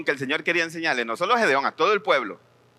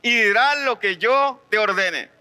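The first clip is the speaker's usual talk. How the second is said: slow, raised commanding voice of God; voice of the Lord; 5 semitones higher, slower than usual. Retold or imitated. The Lord sending a young prophet, slow commanding voice. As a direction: proclaim it slowly as the Lord commanding. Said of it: "Pero el Señor me dijo".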